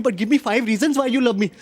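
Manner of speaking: drawn out very slowly, word by word; slow demanding. Retold or imitated. Girlfriend demanding reasons, very slow and drawn out. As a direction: stretch each word like a demand. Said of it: "इन्हें हर दो महीने में जानना है".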